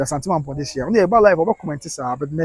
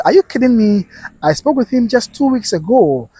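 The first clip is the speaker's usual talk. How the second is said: raised-pitch incredulous reading; disbelief; 4 semitones higher than usual. Retold or imitated. Host reads viewer who spoke to him weeks ago, incredulous. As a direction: voice the comment as stunned disbelief.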